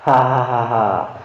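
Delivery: slow, smug mock laugh; a lightly voiced gloating laugh; satisfied laugh. A narrator's reading. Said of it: "tertawa dengan puasnya". (tawa puas yang pelan)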